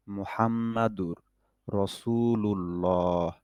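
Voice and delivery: slow, drawn-out recitation to mouth along with. Shown as a demonstration. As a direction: recite slowly, holding each word. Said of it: "আরো আট দশ বার এটা আমি পড়ি". (শিক্ষার্থীদের জন্য ধীরে তিলাওয়াত)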